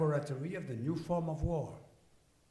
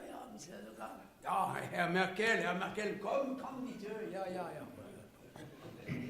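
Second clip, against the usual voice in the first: mock Merkel; 4 semitones higher than usual. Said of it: "Mister Merkel".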